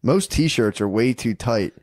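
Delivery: measured, deliberate sales pitch; podcast ad read. Real, not acted. Host pitches True Classic shirts to listeners, ad read.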